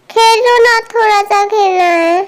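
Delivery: lightly voiced child begging; pleading child. Little girl begs older brother to play, pleading. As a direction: coax like an insistent little kid.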